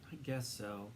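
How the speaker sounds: soft, tired reluctant reply; weary giving in. A narrator's reading. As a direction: give in too tired to argue. Tired boy gives in.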